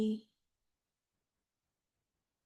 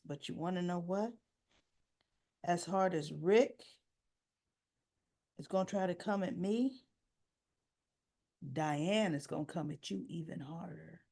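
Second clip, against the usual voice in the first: low menacing threat; 4 semitones lower, 6 dB quieter than usual. Retold or imitated. Sonny warning Ava about Diane, low quiet menace. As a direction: lower and softer, a veiled warning.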